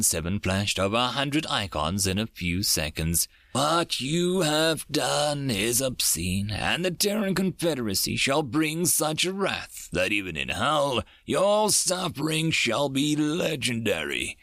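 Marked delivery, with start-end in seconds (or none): 3.5-14.4 shrieking. Acted. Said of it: "Dreams shrieked out".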